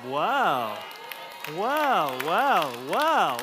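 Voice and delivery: high, loud amazed wows; hammed-up amazement; awed wow. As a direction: gasp in wonder at it. Awed exclamations at the logo.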